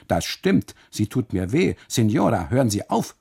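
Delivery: pained, pressed and loud; hissed complaint. Acted. Custodian snapping at the biting wife, urgent. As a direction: hiss it out through the pain. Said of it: "faucht er".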